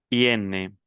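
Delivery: "iene" with a fully sounded n; non-nasal "iene". Shown as a demonstration. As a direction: end "iene" on a clear n, not nasal. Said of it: "el segundo no es nasal". ("iene" sin nasalizar, con la n clara)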